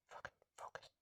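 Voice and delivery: unvoiced hissed swear; frustrated whisper at the lens; whispered curse. Real, not acted. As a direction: curse the camera under your breath. Camera won't focus.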